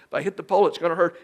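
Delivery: put-on a kid scared of the pole; fretting girl. Daughter frets.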